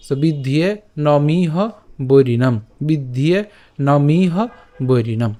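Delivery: বিদ্ধিয়ে নমিহ বৈরিণাম said slow and even; model pronunciation. Shown as a demonstration. Teacher models the line twice for students. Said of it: "কীভাবে উচ্চারণ করবো".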